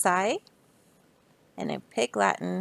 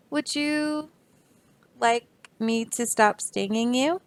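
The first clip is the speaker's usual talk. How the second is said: bee voice; 3 semitones higher than usual. Acted. Bee character voice.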